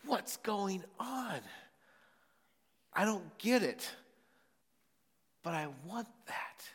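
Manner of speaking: a bystander marveling, wanting what he sees; puzzled eager churchgoer. Retold or imitated. Churchgoer thinking it over, puzzled then longing. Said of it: "you're just thinking".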